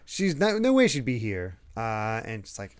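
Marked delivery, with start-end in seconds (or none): 0.0-1.6 high-pitched, hasty mock denial; flustered denial. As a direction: imitate someone scrambling to cover up. Retold flustered denial to young Robin.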